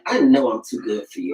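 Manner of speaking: low, smug inner voice. Retold or imitated. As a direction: think it while looking down on him. Look given to the partner.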